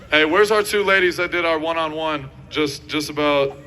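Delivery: loud call across the field; yelling across the room. Real, not acted. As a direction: shout for them to come up. Calling players up at camp.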